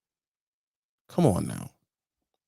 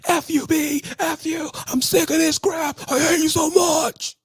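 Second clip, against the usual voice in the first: much higher, loud mock shriek at the phone; mimicked screaming; 3 dB louder than usual. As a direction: shriek it like a trainee losing it on the phone. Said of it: "screaming to the point where you can't understand".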